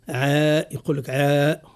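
عاء with the ع said thick, the way it is heard locally; local heavy ain. Shown as a demonstration. Teacher imitating the local heavy ع in عاء. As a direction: say عاء with a partly emphatic ain. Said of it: "زاد هذا النطق زاد محلي".

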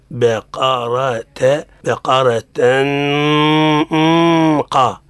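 "بقرة" slowly, ghunna moving from light into heavy qaf; correct graded ghunna. Shown as a demonstration. Teacher giving the correct reading, graded ghunna. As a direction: ease the nasal of "بقرة" from thin to thick. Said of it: "نحن نقول".

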